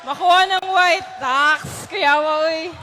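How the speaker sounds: loud host call; rally the white team. Real, not acted. Game host loudly calling the white team.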